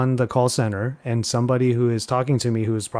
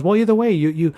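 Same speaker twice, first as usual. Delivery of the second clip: mimicking the client; 7 semitones higher, 4 dB louder than usual. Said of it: "And she just goes".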